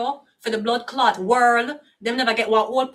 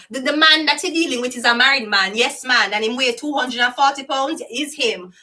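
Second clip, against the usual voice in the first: imitating Miss Cleo's reading; 4 dB louder than usual. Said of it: "Look how Miss Cleo read tarot".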